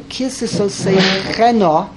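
kisisosechena drawn out slowly as one word; word run together. Shown as a demonstration. Teacher reading the word with no dot, slowly joined. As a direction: say kisisosechena slowly without breaking it up. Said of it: "when there's no dot in the nun".

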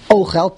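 "Ochel" as O-khel, first syllable leading; stress on first syllable. Shown as a demonstration. Teacher repeating the noun, "Ochel" stressed at the front. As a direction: lean on the O at the start of "Ochel". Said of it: "the emphasis is on the Aleph".

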